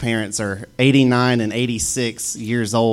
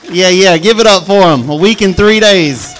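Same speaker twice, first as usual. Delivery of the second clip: excited; 8 semitones higher, 12 dB louder than usual. Real, not acted. Celebrating newlyweds.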